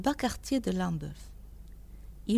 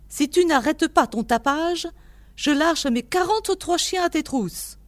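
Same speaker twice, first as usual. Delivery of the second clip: raised, higher-pitched scolding threat; angry threat; 6 semitones higher, 4 dB louder than usual. A narrator's reading. Old man threatens the knocker with his dogs, growling. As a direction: threaten the intruder loudly. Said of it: "gronda une voix".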